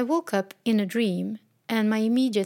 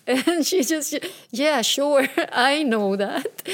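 laughing, loud and higher, slower at the end; laughing reply; 5 semitones higher, 5 dB louder, slower than usual. Retold or imitated. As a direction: toss it off with a laugh. Daughter's breezy reply, retold laughing.

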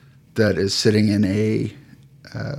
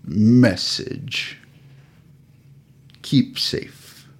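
dying troll; much slower than usual. Acted. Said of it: "and he goes".

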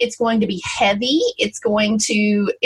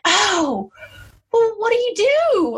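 high, plaintive mock question; bewildered sister-in-law; 11 semitones higher, slower than usual. Imitating the sister-in-law asking what to do, high and lost. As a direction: play her at a loss, pitched way up. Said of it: "And she was like".

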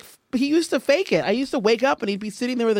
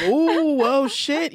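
retold alarm; 4 semitones higher, much slower than usual. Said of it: "I was like".

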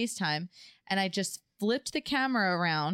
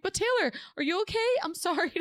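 apologetic; 10 semitones higher, faster than usual. Retold or imitated. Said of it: "I'm like".

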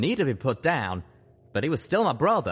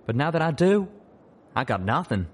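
weary; 3 semitones higher, 3 dB louder than usual. Acted. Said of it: "he said wearily".

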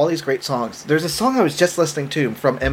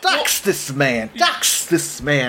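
slow, stretched announcer chant; playful slow proclamation; mock announcement; much slower than usual. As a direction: draw each word out like a hype announcer. Repeats the mock announcement with effects.

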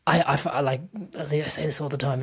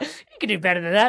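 mock critic laughing; 4 semitones higher, 3 dB louder than usual. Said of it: "it's like".

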